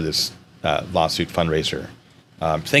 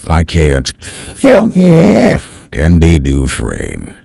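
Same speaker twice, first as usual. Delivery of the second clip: put-on slow, louder old narrator voice; unhurried storyteller, much louder; Morgan Freeman; 3 semitones higher, 9 dB louder, slower than usual. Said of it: "it's not the perfect Morgan Freeman".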